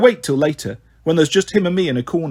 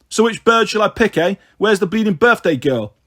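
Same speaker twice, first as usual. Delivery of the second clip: put-on cocky drunken lad, pitched up; lightly voiced skinhead; 5 semitones higher, 4 dB louder than usual. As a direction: swagger through it as a leering gatecrasher. Drunken skinhead picks a girl.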